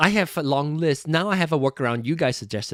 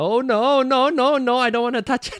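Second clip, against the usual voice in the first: Indian-accented English, pitched up; 9 semitones higher, 4 dB louder than usual. Pulling back from a dial, not wanting to touch it: Indian accent. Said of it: "sorry, I sounded Indian".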